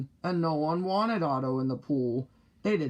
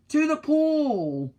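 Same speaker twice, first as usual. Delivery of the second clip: high, loud, slow yell; boy yelling the way to the pool; 10 semitones higher, 4 dB louder, slower than usual. Acted. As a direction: shout it out with the firemen. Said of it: "I yelled".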